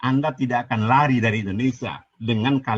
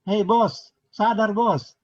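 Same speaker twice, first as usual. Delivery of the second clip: higher, heated call to wake up; angry call-out; 8 semitones higher, much slower than usual. Real, not acted. Debater calls out his opponent in a higher, heated voice. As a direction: snap at him to come to his senses.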